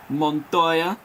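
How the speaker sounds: put-on lightly Italian-accented name call. Commentator calling players' names, slips into an Italian accent. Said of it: "revert to an Italian accent".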